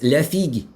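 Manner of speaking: "la figue" said the French way, fig as "feeg"; French pronunciation. Shown as a demonstration. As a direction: give "la figue" a light French sound, "feeg". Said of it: "So in French".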